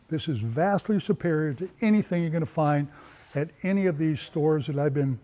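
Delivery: winded, running out of air; out of breath. Real, not acted. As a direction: talk while short of breath. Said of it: "I'm getting out of breath".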